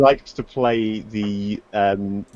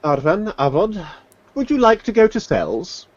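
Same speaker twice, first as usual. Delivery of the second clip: mock sweet offer; 10 semitones higher than usual. Official offers prisoners cells, mocking.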